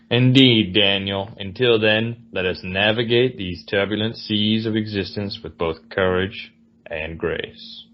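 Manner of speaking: courtly Southern farewell; lightly put-on Southern genteel accent. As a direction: bid him goodbye in a stately Southern accent. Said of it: "The Southern genteel".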